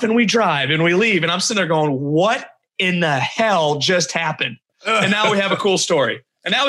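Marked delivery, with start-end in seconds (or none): 2.0-4.6 slow, drawn-out mock bewilderment; retold disbelief, spacing out every word; stunned disbelief. Recalling the silent car ride after the bathroom mess, stunned and slow.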